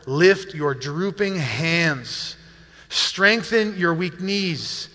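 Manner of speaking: slow, deliberate reading aloud; scripture reading. Acted. Pastor reads the verse to the congregation, slow scripture reading. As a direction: read each phrase slowly and solemnly.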